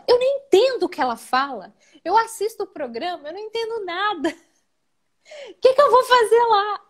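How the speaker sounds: high, breaking voice, half laugh, half sob; tearful laughing plea. Retold or imitated. Confessing to a colleague she feels unworthy, tearful. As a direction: let it crack between laughing and crying. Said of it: "né, muito chorosa".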